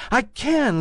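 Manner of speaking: high, small rabbit voice; little toy rabbit. A narrator's reading. Toy rabbit insisting to the wild rabbit, high small voice. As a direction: pipe up like a tiny toy bunny. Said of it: "said the little rabbit".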